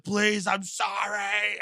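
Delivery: slow, drawn-out imitation of begging; mock crying plea. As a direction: plead like a condemned man, half-hearted tears. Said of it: "he's crying like".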